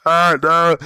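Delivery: high, loud laughing protest; burst of laughter. Real, not acted. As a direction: laugh it off loudly. Laughing at own silly name.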